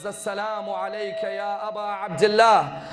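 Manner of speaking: softly voiced, as if thought to himself; hushed inward salutation. Muslim's last thoughts turn to Aba Abdullah, hushed salutation.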